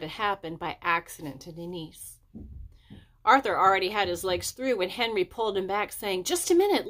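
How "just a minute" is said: harsh stop. A narrator's reading. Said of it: "Henry can be harsh sometimes".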